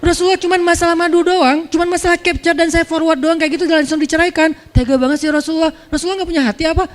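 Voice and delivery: a hint of a hurt wife's whine; whiny wife's plea. Imagined Hafsah pleading with the Prophet, high and whiny. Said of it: "Dia nggak bilang".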